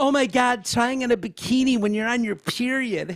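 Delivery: high mocking lisp. Mocking the way Dylan Mulvaney talks, putting on a little lisp. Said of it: "this mockery of being a woman".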